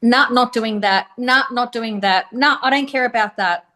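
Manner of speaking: mildly defiant retold refusal. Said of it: "I was just defiant".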